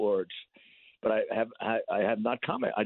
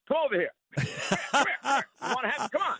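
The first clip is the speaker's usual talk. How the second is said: higher-pitched mock challenge with a laugh; losing my temper; 10 semitones higher than usual. Taunting a heckler on the street, mock challenge. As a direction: taunt him to come closer, half laughing. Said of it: "I'll lose my temper".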